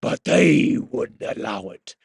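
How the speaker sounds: slow, drawn-out mock British narrator; mock British game voice. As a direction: ham up the audio-log voice slowly.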